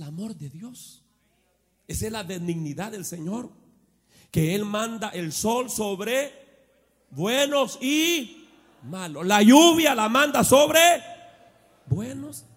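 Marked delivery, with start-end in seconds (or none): 4.3-12.4 rising, louder preaching, slow. Acted. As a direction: build it up to the church. Preaching build. (predicación que sube de tono)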